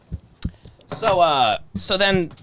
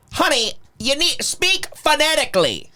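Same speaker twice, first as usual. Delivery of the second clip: imitating Stan, higher and patronising; a higher mock scolding of the waitress; condescending quote; 8 semitones higher than usual. Stan lecturing the waitress, higher and patronising. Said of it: "He goes".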